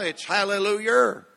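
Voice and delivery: hallelujah with an r at the end, hallelujer; North Carolina hallelujah. Shown as a demonstration. Preacher showing the North Carolina way, hallelujah with er. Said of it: "You have an E R on the end of it".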